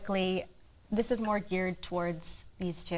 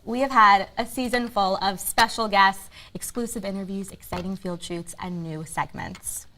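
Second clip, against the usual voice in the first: polished TV host link, easing down at the end; presenter recap; 3 dB louder than usual. Acted. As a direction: present the highlights to viewers. Host reads season recap to camera.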